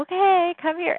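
high-pitched retelling of a husband's response; imitating husband. Husband calling his emotional wife over, imitated high. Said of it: "he just looked at me and was like".

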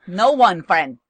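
mock Chinese accent, slow; slow, clipped mock Chinese accent. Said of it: "you do the Chinese accent better".

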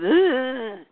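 drawn-out imitated groan; strained retold grunt; acted groan. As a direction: groan with effort.

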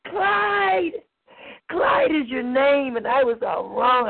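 high, crying out his name; ecstatic cry. Acted. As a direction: cry out in bliss.

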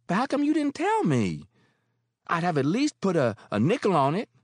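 motherly landlady; Mary, older woman. Acted. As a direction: speak as kindly Mary. Mary's voice.

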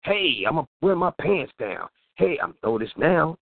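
slow, mocking show-off kid. Host mocking kids who want to be noticed, slow mock boast. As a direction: drawl it like a kid craving attention. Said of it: "which is".

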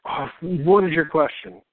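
slow, drawn-out retold exasperation; exasperated reply. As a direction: act out being fed up with a client. Retelling weary reply to pestering client.

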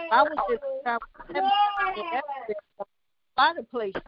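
fighting back tears; tearful. Real, not acted. Emotional about daughter, cry heard.

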